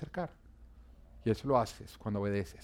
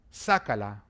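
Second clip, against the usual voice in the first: firm, slightly louder, lower command; retold order; 3 semitones lower, 4 dB louder, slower than usual. Elisha orders the man to take out the axe, firm command. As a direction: give it as a short firm order. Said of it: "ordenó Eliseo".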